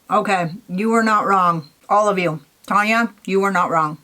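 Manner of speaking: talking while chewing; words round a bite of candy; mouth full. Real, not acted. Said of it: "I'm talking with my mouth full".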